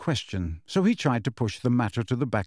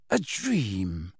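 low register drop; 5 semitones lower, 4 dB quieter than usual. A narrator's reading. Snape repeats low.

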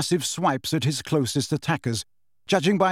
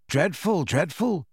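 pompously; 3 semitones higher, slower than usual. Acted. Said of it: "shaking his head pompously".

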